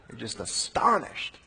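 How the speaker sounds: awed whisper; hushed whisper. Real, not acted. Preacher marvelling at the brothers, whispered. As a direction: let it drop to a breath. Awe at the reveal.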